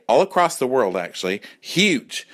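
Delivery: ordinary talk, nothing marked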